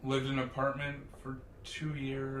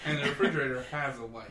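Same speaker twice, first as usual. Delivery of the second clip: laughing; 5 dB louder, much faster than usual. Real, not acted. Joking along, laughing.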